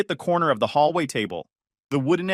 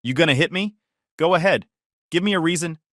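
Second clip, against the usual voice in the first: manic taunt; 5 semitones higher than usual. Acted. Worked-up brother goads his brother, manic. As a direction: egg him on, almost manic. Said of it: "almost manic".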